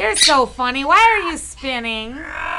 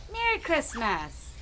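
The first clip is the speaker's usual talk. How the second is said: soft coaxing; 9 dB quieter than usual. Shown as a demonstration. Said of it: "can you say Merry Christmas?".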